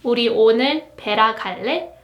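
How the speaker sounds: quick rising 우리 오늘 베라 갈래; native-speed question; fast everyday Korean question; fast casual Korean. Shown as a demonstration. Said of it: "So for example, you can say".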